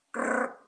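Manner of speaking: short voiceless rasping scrape; scratching claw noise. Retold or imitated. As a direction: imitate a single claw scrape. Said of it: "suara cakar itu".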